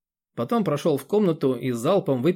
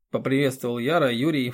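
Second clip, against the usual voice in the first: usual speaking voice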